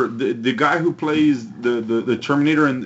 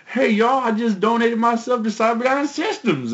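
put-on southern redneck accent; 10 semitones higher than usual. Recalling the DVD extra's redneck, a hint of southern accent. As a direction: play the hick from the DVD extra, lightly. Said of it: "He has a southern accent".

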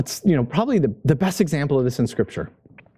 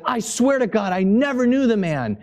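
vehement denial; 6 semitones higher than usual. Retold or imitated. Peter's vehement denial acted out.

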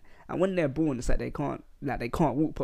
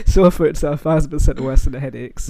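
laughing while talking; 8 dB louder than usual. Real, not acted. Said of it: "I didn't even finish the sentence".

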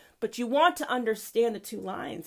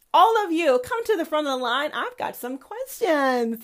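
God calling people forward, a bit louder; lightly voiced God; 5 semitones higher, 4 dB louder than usual. God summoning the transgenders to the front, lightly voiced. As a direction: summon them like a mild almighty. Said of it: "says God".

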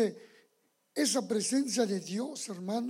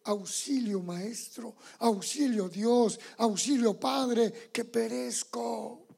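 cry for help; slower than usual. Shown as a demonstration. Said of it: "aprender a gritarle".

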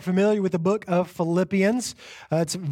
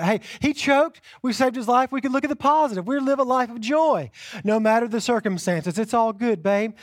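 higher, chirpy make-the-best-of-it tone; mock upbeat spin; 5 semitones higher than usual. Shown as a demonstration. Husband spinning the choking to wife, mock cheerful. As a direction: sell the bright side to your wife. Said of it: "I communicate that".

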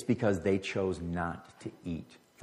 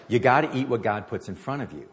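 louder, pressing the point home; emphatic repeat; 4 semitones higher, 5 dB louder than usual. Retold or imitated. Preacher repeating a friend's advice, louder and emphatic. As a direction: drive the advice in with force.

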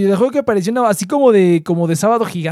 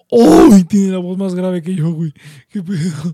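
shocked reaction; 7 dB louder than usual. Retold or imitated. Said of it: "cuando escuché su voz real dije".

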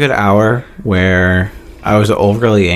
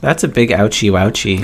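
put-on baby talk; 3 semitones lower than usual. Baby talk to a hurt friend.

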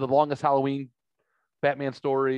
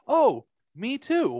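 mimicking the girl, pitched up and drawn out; high, slow girl voice; 12 semitones higher, 5 dB louder, much slower than usual. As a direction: lift the voice high and stretch it. Retelling the girl's excited reply.

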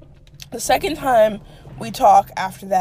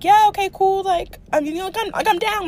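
mock noncommittal guy; 8 semitones higher than usual. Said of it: "And he was like".

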